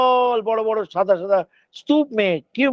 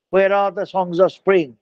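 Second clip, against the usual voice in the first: slow recital of the poet's question; poet's line recited; 2 semitones lower, much slower than usual. Acted. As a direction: ask it slowly, like reading the poem. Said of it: "poet বলছেন". (কবির প্রশ্ন ধীরে আবৃত্তি)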